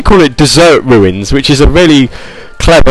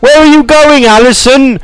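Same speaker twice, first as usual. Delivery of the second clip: very high, wailing stalker voice; crazy stalker; 12 semitones higher, slower than usual. Acted. Stalker calling after fleeing Allison, crazed high wail. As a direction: call after them like a hammed-up obsessed stalker. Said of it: "this really crazy stalker".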